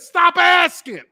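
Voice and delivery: high, loud mock outburst; exasperated refusal. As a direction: imitate someone fed up, pitched right up. Repeats the guest's refusal louder.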